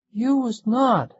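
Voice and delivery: put-on high, slow, loud boy's shout; child shouting. A narrator's reading. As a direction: yell it like an angry little boy. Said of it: "he shouted".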